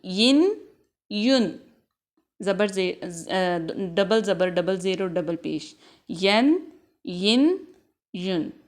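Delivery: यन यिन युन, each said clearly; tanween drill. Shown as a demonstration. Teacher drills tanween for the class. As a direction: recite the nunation forms one by one. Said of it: "उसके बाद है यन".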